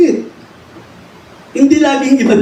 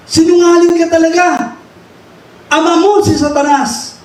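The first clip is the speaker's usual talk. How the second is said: harsh rebuke; 4 semitones higher than usual. Shown as a demonstration. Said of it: "hindi dapat ganun ang pagre-review".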